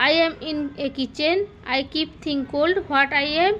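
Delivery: slow, careful teacher reading; slow riddle reading. Shown as a demonstration. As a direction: read the riddle slowly to a child. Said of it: "teacher reads riddle slowly". (धीरे-धीरे पहेली पढ़ना)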